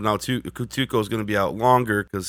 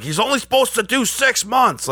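much higher, squeaky quote; high mock quote; 14 semitones higher, 3 dB louder than usual. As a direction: pitch it way up, mocking. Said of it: "And he's like".

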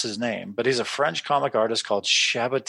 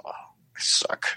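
deflated; 10 semitones lower than usual. Retold or imitated. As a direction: let it sink out of you. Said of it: "'cause you're like".

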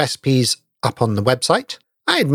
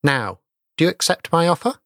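measured, ominous storytelling voice; ghost story narration. A narrator's reading. Host reads listeners a Christmas ghost story, ominous. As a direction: read it like a fireside ghost tale.

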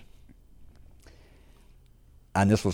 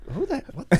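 startled, much higher pitch. Retold or imitated. Looking around the room, a high startled blurt. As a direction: jump up in pitch, baffled. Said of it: "I kinda looked around like".

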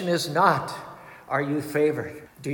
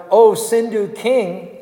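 shouting. Acted. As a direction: call out a challenge to fight. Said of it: "Arjuna shouted".

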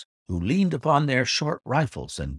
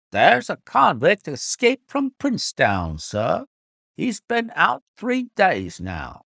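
higher-pitched, animated local driver voice; coach driver; 6 semitones higher than usual. A narrator's reading. Driver telling passengers of an escaped convict, animated and high. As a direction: report it eagerly as the driver, pitched up.

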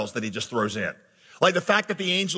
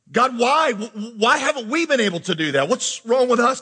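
higher, exasperated questioning; pleading with God; 5 semitones higher than usual. Retold or imitated. Pastor voices a struggling family questioning God, pleading. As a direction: plead for an explanation.

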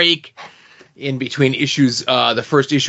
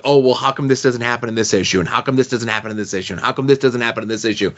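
fast rattled-off questions; much faster than usual. Retold or imitated. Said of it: "And I'm like".

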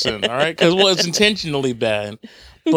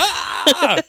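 laughing mock scream; 14 semitones higher than usual. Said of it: "you're just screaming at the sky".

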